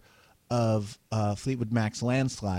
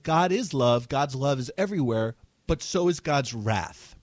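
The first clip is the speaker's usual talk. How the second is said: mock preacher; 3 semitones higher than usual. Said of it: "He's like".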